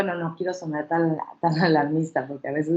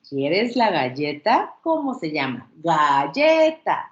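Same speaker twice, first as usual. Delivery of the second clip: put-on modelling for a child; 3 semitones lower, slower than usual. Shown as a demonstration. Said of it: "por ejemplo".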